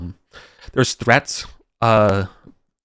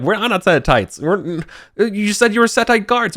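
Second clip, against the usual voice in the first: high, loud, disbelieving shout; exasperated protest; 11 semitones higher, 3 dB louder than usual. Acted. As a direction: throw it back at him, outraged. GM voicing NPC argument.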